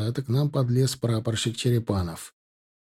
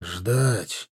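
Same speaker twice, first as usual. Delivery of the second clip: breathed out heavily; on an exhale; 5 semitones lower, 3 dB quieter than usual. A narrator's reading. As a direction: say it on an outgoing breath. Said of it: "на выдохе сказал он".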